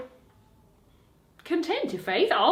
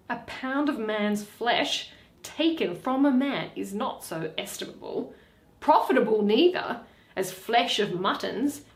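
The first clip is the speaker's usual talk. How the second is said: scheming Shylock, lightly voiced; 3 semitones higher than usual. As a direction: relish the bargain with a sly laugh. Shylock's voice in reading.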